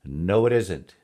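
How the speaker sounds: loud, punchy imp denial; emphatic storybook imp; gloating imp. A narrator's reading. Imp rejects the guess.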